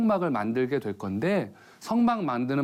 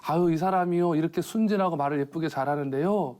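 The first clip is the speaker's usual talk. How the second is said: wife; 5 semitones higher than usual. Retold or imitated. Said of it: "이 와이프가 하는 말이".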